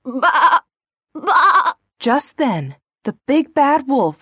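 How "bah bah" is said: sheep bleat. Acted.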